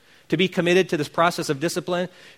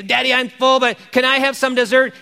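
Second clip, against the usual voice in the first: put-on pleading child; 6 semitones higher, 4 dB louder than usual. Child begging father for dessert.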